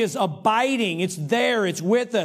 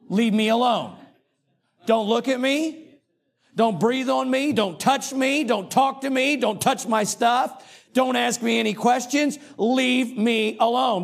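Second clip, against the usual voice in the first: higher, hammed-up cranky commands; mock grumpy demands; 4 semitones higher than usual. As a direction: play the grouchy morning person shooing everyone off. Mock grumpy morning person.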